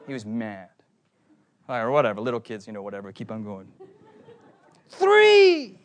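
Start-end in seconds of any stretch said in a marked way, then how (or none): 4.9-5.8 high, loud, drawn-out count; kid's shouted count. Retold or imitated. Little brother shouts his count from the back seat. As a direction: yell the number like a sulking child. Angry kid counting restaurants.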